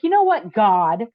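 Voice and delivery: mock defiant ultimatum that slows at the end; demanding of God. Woman screaming a demand at God in her car, retold challenge. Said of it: "I just made this ridiculous demand".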